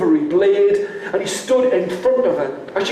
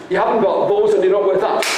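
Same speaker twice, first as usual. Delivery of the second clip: fast scornful; much faster than usual. Acted.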